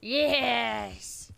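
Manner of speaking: exaggerated, drawn-out mimicked yes; imitating his yes. Trying to say yes like the other speaker, imitating. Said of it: "trying to say yes like you".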